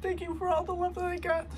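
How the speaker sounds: tearful, high, rushed thanks; crying thanks. Real, not acted. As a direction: choke out the thanks. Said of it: "ugly crying".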